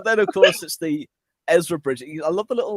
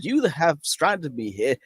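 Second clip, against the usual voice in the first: slow villain line; much slower than usual. Retold or imitated. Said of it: "Thrawn probably went".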